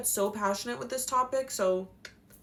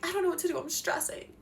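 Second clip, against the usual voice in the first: stressed student; 8 semitones higher, faster than usual. Retold or imitated. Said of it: "they're like".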